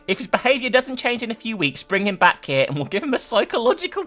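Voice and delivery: creepy doctor. Acted. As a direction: play the doctor as unhinged and cheerful. Doctor voiced in the story.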